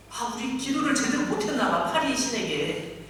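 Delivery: hurried, loud panicked praying; frantic worshipper begging the fly god; frantic Egyptian. Acted. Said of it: "막 그러고 있었을지도".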